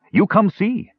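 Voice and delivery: high, dim-witted dwarf voice; simple dwarf voice. A narrator's reading. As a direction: sing it out like a cheerful dolt. Numskull, simple-minded dwarf speaking.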